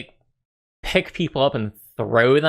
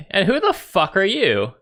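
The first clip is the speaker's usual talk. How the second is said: hostile challenge; 9 semitones higher than usual. Acted. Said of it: "speaks up and is like".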